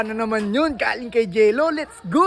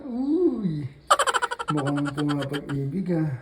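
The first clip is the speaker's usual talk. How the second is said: quiet at night; 9 semitones lower, 5 dB quieter than usual. Real, not acted. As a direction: keep it low, someone's sleeping. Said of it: "hinaan lang natin boses kasi baka ma".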